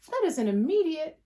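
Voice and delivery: a sudden passionate burst; excited. Real, not acted. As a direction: blurt it out, passionate. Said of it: "I get excited and passionate".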